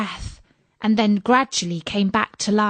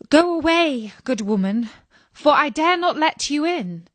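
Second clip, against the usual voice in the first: Snow White refusing; 6 semitones higher than usual. Acted.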